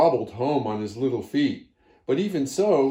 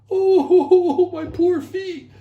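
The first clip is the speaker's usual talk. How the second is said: high squeaky chipmunk wail with a laugh; 10 dB louder, much slower than usual. A narrator's reading. Chipmunk crying over his small feet, high wail. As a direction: wail like a tiny critter, much higher. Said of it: "Chipmunk wailed".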